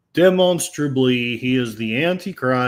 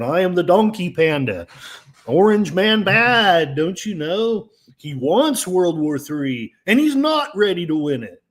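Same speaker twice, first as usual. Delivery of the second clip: sarcastic teasing; 4 semitones higher, 3 dB louder than usual. Pretend. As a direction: lay the sarcasm on thick. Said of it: "hope you know that I'm teasing".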